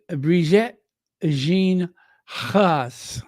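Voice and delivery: Brigitte Jean Ross in a light, drawn-out French accent; mock French accent. Shown as a demonstration. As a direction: say the name slowly, the French way. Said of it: "in my deepest French accent".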